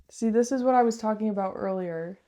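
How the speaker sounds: echoing room. Real, not acted. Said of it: "really echoey in here".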